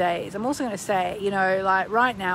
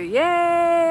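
high happy cheer; high little cheer; squealed yay; 9 semitones higher, 6 dB louder than usual. Pretend. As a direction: cheer like a kid. Excited affirmation chant.

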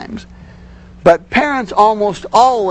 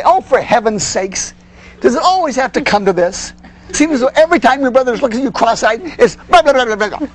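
hammed-up fed-up parent, fast and higher; exasperated parent; 5 semitones higher, faster than usual. Shown as a demonstration. Parent showing the rude way to answer a complaining kid, mock exasperated. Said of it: "I didn't say".

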